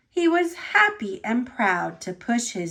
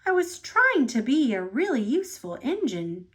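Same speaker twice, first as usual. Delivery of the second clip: tooted; faster than usual. Acted. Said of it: "tooted Thomas".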